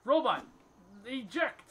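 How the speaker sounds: sharp excited shout, pitched high; calling out commands. Real, not acted. Player calling robot commands in the game, loud shout.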